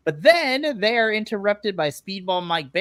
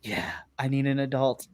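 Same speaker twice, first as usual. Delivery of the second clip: quiet; 6 semitones lower, 5 dB quieter than usual. Real, not acted. Repeated softly.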